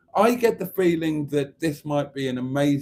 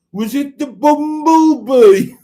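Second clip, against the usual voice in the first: very loud, high, slow Black Country; hammed-up Black Country punchline, pitched way up; Black Country accent; 13 semitones higher, 13 dB louder, slower than usual. Shown as a demonstration. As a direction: belt it out in broad Black Country. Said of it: "in a black country accent".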